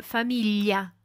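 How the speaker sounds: "famiglia" avec gli comme dans million; "famiglia" à l'italienne, l mouillé; gli mouillé italien. Shown as a demonstration. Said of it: "Par exemple". (« famiglia », l palatal, famillia)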